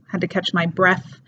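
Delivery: "breath" said as breff within the phrase. Shown as a demonstration. Teacher using the example in a phrase, "breath" as breff. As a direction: close the phrase with "breath" ending in F. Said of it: "comes out as an F".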